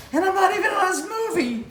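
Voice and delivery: high, loud laughing words. Real, not acted. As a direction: laugh through the punchline. Laughing at his own scolding.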